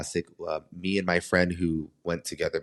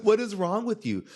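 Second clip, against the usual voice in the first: incredulous; 13 semitones higher than usual. Retold or imitated. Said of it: "And I was like".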